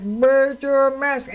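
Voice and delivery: muffled through masks. Retold or imitated. Man in a double mask confronting me, slow and muffled. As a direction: talk as if through two masks. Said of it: "his lips could hardly move".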